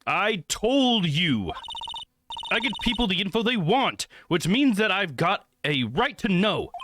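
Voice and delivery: insistent reporter voice. Acted. Streamer voicing a pushy reporter at the hotel door, insistent. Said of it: "used the wrong voice there".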